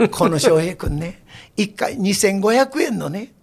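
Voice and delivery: lightly voiced old rakugo master, slow; a hint of Beicho's leisurely storytelling; imitating Beicho. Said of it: "米朝藩がいつも番組で".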